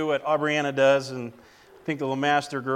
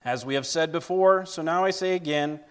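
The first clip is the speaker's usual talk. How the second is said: measured public Bible reading; scripture reading. Acted. Preacher reading Galatians to the church, formal scripture reading. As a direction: read it out clearly, phrase by phrase. Reads Galatians one aloud to congregation.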